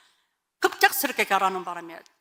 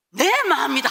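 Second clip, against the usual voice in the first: loud, raised divine decree; God's blunt reply; 4 semitones higher, 8 dB louder than usual. Retold or imitated. God overruling the wife's complaint, loud and final. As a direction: proclaim it as final. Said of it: "하시는 거예요".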